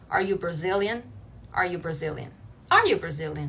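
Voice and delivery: "Are you Brazilian" without a questioning rise at the end; unchanged intonation. Shown as a demonstration. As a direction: repeat "Are you Brazilian" low, like a statement. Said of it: "não in-, mudar a entonação e falar".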